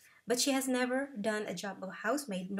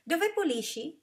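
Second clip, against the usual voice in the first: higher and louder, a prying question; nosy woman; 7 semitones higher, 5 dB louder than usual. Acted. Bus stranger presses Lara about where she cleans, high and pushy.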